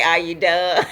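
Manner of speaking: amused, chuckling through the question; unbothered laughing reply. Retold or imitated. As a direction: laugh off their anger. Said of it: "I'ma laugh, and I'ma say".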